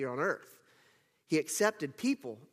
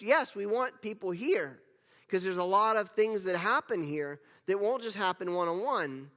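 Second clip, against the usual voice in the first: raised pitch, insistent preaching; full-throttle preaching; 3 semitones higher than usual. Real, not acted. Preacher urging church not to substitute attendance for study, full throttle. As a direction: press each point home with rising fervour. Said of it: "I'll pull back a little bit".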